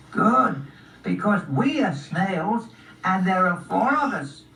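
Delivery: high, slow snail speech; unhurried little snail, pitched high. Acted. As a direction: explain it slowly as a tiny snail. Snail introduces the group.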